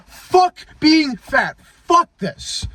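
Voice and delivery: high-pitched angry outburst, reliving it; retold yelling. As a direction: spit it out like the moment it snapped. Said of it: "I'm yelling because I'm remembering".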